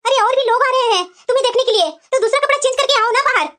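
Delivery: brisk summons. Acted. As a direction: call out to hurry her up. Mother-in-law hurries the bride out.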